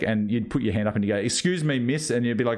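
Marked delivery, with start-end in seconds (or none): 1.2-2.1 normal schoolboy voice. Retold or imitated. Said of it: "my voice started to break".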